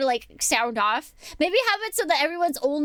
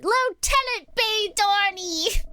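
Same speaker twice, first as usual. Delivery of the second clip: proud announcement; 8 semitones higher, slower than usual. Real, not acted.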